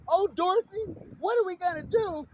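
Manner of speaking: scared Oz companion. Pretend. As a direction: whimper at Dorothy in a high, fretful voice. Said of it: "But Dorothy".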